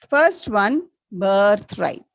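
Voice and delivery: teacher announcing the answer loudly; loud recap. Shown as a demonstration. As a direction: call it out to the whole class. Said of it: "Once again, repeat".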